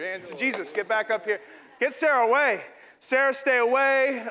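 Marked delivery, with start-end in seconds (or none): 1.8-4.3 mock alarm. Mock panic over Sarah.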